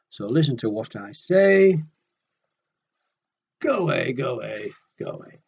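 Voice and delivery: loud, grumpy bird snapping go away; cross Go Away Bird. Acted. Storyteller voicing a cross bird refusing a chat, loud and grumpy. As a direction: shoo the chatterbox off crossly.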